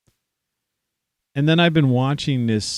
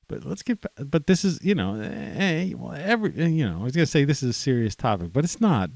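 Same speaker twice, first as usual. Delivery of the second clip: laughing through words; 6 semitones higher, faster than usual. Real, not acted. Trying to get back on topic, still laughing. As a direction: still giggling, pitch way up. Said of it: "see, I'm laughing".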